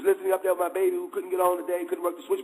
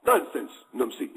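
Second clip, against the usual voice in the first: hammed-up British scoffing laugh; mock British laugh; 6 semitones lower than usual. British lieutenant laughs off the Mahdi's warning, mock British accent. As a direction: imitate a British officer laughing it off. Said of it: "he laughed with his British accent".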